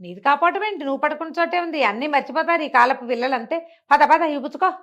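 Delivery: put-on an impatient old man shooing the boy along; scolding elder.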